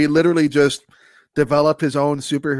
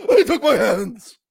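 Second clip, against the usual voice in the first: slow, higher drawn-out wail; mournful wailing; 5 semitones higher, slower than usual. Pretend. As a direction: wail it out like a maimed hero. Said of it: "Oh, mournful wailing".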